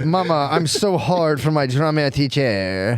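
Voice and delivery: put-on slow, lightly French-accented son. French boy confessing to his mama about his teacher, mock French accent. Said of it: "the French would have done that so much better".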